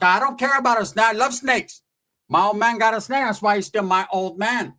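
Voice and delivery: insistent aunt. Retold or imitated. Aunt declaring she loves snakes, high imitated voice. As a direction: play the aunt brushing off a warning. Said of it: "My tia's like".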